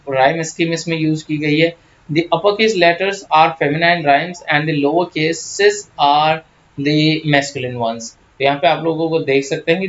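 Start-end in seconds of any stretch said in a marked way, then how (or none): 2.1-8.0 very slow, measured reading of English notes; slow reading aloud. Acted. Teacher dictates English notes, very slow. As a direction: spell out each word for students.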